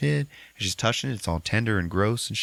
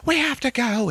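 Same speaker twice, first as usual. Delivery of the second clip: much higher, louder eerie put-on voice; mock urgent Talia; 4 dB louder than usual. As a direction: urge them in a high strange voice. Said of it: "she's like".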